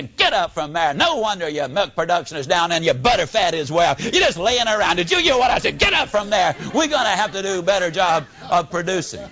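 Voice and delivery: hammed-up farmer chewing out a lazy cow; mock-angry barn scolding.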